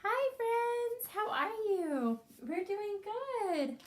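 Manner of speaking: put-on chirpy tiny character greeting the kids, slow and bright; very high cartoon critter voice; puppet voice. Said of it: "let's call Mister Stripes".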